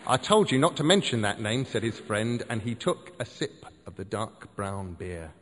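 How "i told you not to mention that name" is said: scolding. Acted. Friend scolds him.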